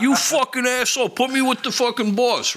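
furious sergeant. Retold or imitated. Sergeant demands the boss on the phone, furious yell. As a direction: bellow it, laughing through the retelling. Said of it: "He's like".

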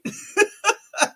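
airy high laugh without voice; breathless laugh. Real, not acted. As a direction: let a breathy high giggle escape. Laughing about racist joke.

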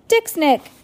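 high, loud nonsense question; baby babble. A narrator's reading. Baby Sunny questioning the stranger, high babble. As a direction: pipe it up like a toddler.

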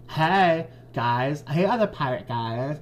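lightly voiced Valley Girl greeting; a hint of Valley Girl uptalk. Stede greeting the other pirates, light Valley Girl. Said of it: "I'll be Valley Girl".

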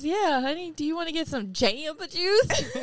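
put-on country accent. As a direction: imitate his country twang, teasing. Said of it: "like, a country accent would come out".

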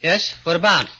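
a small frightened acrobat begging his boss; timid little man. Acted. Gorgo meets the doctor.

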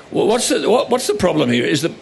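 mock-puzzled, halting question; playing dumb. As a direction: stumble through it as if clueless. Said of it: "playing dumb".

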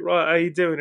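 casual British greeting, imitated; British accent. Meeting someone British, imitated British accent. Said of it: "with a British accent".

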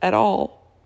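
slow, high and tearful; crying. Real, not acted. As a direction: let the voice break on the words. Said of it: "sorry about the cry".

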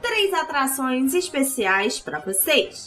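lightly voiced circus ringmaster. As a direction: announce it like a big-top ringmaster.

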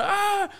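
high-pitched mock crowd yell "aah"; crowd outcry. Storyteller mimics the cinema audience revolting, high mock outcry. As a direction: imitate an audience erupting in protest.

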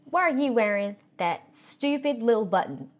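lightly voiced irritated aunt; a hint of a scornful conservative aunt at dinner; mild mock annoyed aunt voice; Republican aunt. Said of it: "This triggers the Republican aunt".

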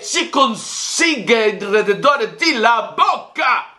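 put-on Spanish speaker putting on a jokey Italian accent; mock Italian. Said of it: "me gusta cuando usted habla italiano".

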